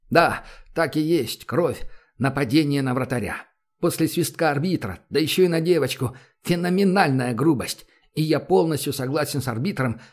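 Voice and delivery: brisk sports play-by-play; hockey commentary. Acted. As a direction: call the game like a TV commentator. Hockey commentator calling the match.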